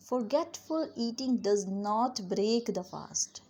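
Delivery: slow, careful teaching read; slow model sentence. Shown as a demonstration. Teacher modelling the sentence slowly for students. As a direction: say it slowly so learners can follow. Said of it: "तो हम कैसे कहेंगे?".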